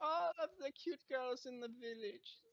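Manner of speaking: put-on light German accent, self-pleased; a hint of a boastful German; part-German vain voice. Narcissist naming his village admirers, in a light German accent. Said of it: "like, part German now".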